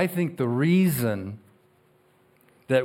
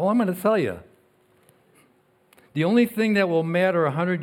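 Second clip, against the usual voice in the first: rising preacher's emphasis; 6 semitones higher, 3 dB louder than usual. Real, not acted. Preacher drives home his main point.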